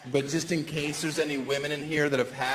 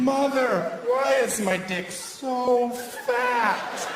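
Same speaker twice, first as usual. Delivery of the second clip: mock crying child; 8 semitones higher, much slower than usual. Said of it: "I would run home crying".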